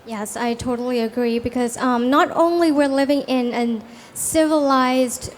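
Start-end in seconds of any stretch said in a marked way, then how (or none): none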